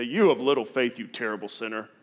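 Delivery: mock stern "You of little faith" snapped as scolding; harsh rebuke. Shown as a demonstration. Wrong reading, Jesus scolding Peter, mock stern. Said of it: "I think Jesus didn't say".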